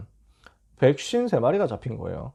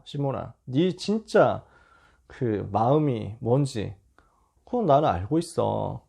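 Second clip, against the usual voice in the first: gentle, slow; 3 semitones lower, slower than usual. Retold or imitated. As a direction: draw it out gently, reassuring him. Jesus speaks gently to Peter.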